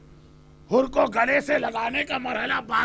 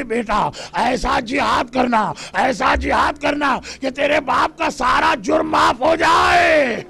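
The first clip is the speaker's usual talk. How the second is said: calling out. Retold or imitated. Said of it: "حر نے آواز دی".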